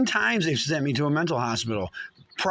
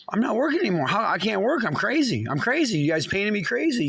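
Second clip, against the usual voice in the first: pitched-up defiant declaration; defiant outburst; 5 semitones higher than usual. Real, not acted. Man fires back at those who called him crazy, defiantly. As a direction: fling the label back at them.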